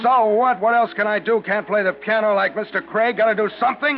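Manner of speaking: put-on drunken shouting. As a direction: raise the voice like a man who's had too much. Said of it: "You have to shout?".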